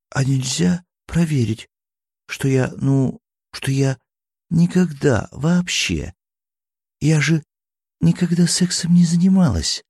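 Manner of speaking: put-on a blushing girl stumbling over the words; embarrassed girl. Eri's embarrassed confession. (смущённая девушка, выше и с запинками)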